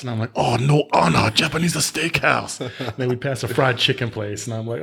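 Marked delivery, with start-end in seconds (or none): 0.3-2.6 put-on higher-pitched caricatured East Asian accent; exaggerated put-on Japanese accent; mock East Asian accent. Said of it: "not to do a Chinese accent".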